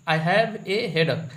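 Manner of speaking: "I have a headache" said slowly, word by word; slow repeat. Shown as a demonstration. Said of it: "ये सही है". (धीरे-धीरे दोहराना)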